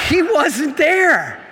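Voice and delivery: slow, loud and high, stretched in alarm; alarmed exclaim. Retold or imitated. Telling the audience the guide vanished, slow alarmed cry. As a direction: let the panic out as you realise he's gone.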